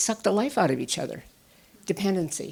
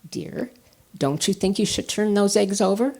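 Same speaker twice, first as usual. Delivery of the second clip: sweetly. Retold or imitated. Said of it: "says very sweetly".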